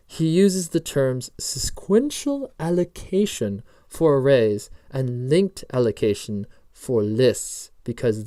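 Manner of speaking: slow, measured mock British accent; the speaker's fake British accent. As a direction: read the notes deliberately in a put-on British accent. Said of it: "My fake British accent".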